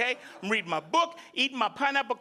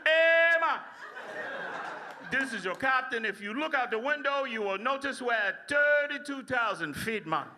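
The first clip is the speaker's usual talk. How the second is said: Jamaican captain. Retold or imitated. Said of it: "The captain comes on".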